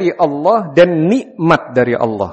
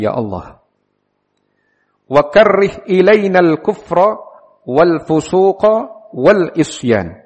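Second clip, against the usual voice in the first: prayer recitation; 3 semitones higher, 4 dB louder than usual. Acted. Teacher praying for love of faith, phrase by phrase, raised supplicating delivery. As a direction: recite each phrase deliberately, stretching the endings.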